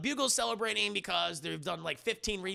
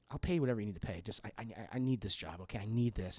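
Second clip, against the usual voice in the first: acted pleading; 10 semitones lower, 5 dB quieter, faster than usual. Retold Eddie begs Peter for job.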